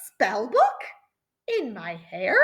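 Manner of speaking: a half-hearted mock shriek; startled disbelief; shocked shriek. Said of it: "She shrieked".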